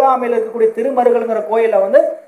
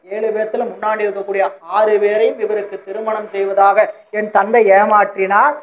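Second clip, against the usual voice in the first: imitated tearful account; 2 semitones lower than usual. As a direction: play a grieving woman pleading her case, haltingly. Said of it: "அப்படின்னு அழுகிறார்".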